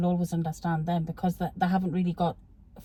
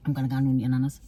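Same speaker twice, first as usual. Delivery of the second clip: broad Geordie; 7 semitones lower, faster than usual. Pretend. Mother replies in the pretend chat, broad Geordie. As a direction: answer in thick Geordie. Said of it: "be broad Geordie".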